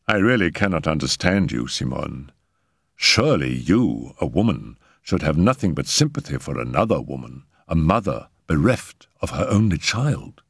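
low, measured disapproval; almost cold. Acted. Raoul withdraws his arm from Simone, almost cold. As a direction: reprove with restrained coolness. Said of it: "spoke almost coldly".

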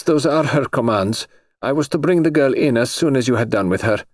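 lightly voiced high noble lady; a touch of a high, haughty aristocrat; lady's voice. Princess insists on orders.

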